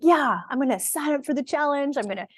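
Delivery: playfully mocking go-getter pep; gung-ho mock enthusiasm. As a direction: ham up the all-in fired-up newbie. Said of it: "We're like".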